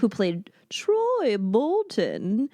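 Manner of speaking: slow, breathy whisper of a theater teacher; drama teacher. Pretend. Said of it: "that was my Missus Darbus, the theater, theater teacher voice".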